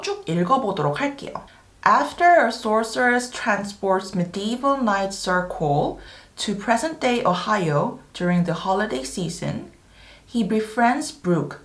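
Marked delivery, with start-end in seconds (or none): 1.8-11.6 slow, careful teaching read in phrases; measured, articulated English reading; slow read-aloud. Shown as a demonstration. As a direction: read the synopsis slowly for learners, pausing between phrases. Reads synopsis aloud slowly.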